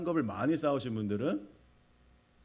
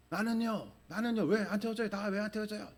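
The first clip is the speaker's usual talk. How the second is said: much higher-pitched mock protest; imitated yelling; 9 semitones higher than usual. Left-behind people demand to board, mock yelling. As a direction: act out a clamouring crowd without full volume. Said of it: "막 소리를 질러요".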